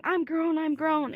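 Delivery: high whiny imitation; mocking quote. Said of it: "And she was saying".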